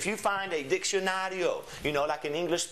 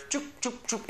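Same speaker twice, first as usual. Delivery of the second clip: three short high "choop" noises; higher-pitched chop for each syllable cut; chopping sounds; 8 semitones higher than usual. Shown as a demonstration. Teacher showing how to divide a word, little chopping noises. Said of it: "how to divide a word".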